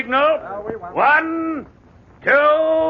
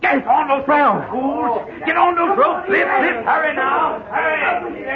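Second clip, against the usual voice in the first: shouted orders; 2 semitones higher, slower than usual. Acted. Foreman shouting orders in crisis.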